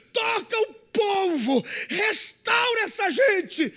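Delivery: high, loud, building pulpit cry; full-force preaching. Acted. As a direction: preach it hard, building to a desperate plea.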